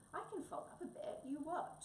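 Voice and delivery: high, eager and keen to please. Acted. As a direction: offer it eagerly, almost breathless to please. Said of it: "said Wombat eagerly".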